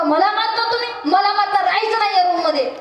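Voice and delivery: high, pained cry of protest; angry protest. Acted. Beaten boy cries out at his roommates, high and hurt. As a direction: yell it out like a boy being beaten.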